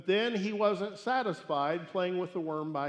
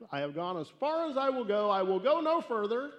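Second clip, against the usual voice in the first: rising, louder firm vow; building resolve; 5 semitones higher, 5 dB louder than usual. Acted. Mother swearing to herself to go no further, building louder. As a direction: build to a defiant stand.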